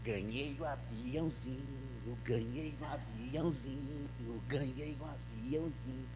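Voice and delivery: put-on low, slow, softly sung-out child's chant; a child quietly celebrating his gift; happy little boy. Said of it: "começou a fazer assim, ó".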